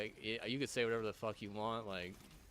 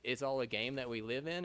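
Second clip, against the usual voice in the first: lightly mocking their line, rising at the end; mocking quote; 2 semitones higher, 3 dB louder than usual. Quoting people who call life a game, mild mockery. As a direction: echo the other view with a touch of scorn. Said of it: "It's like, no".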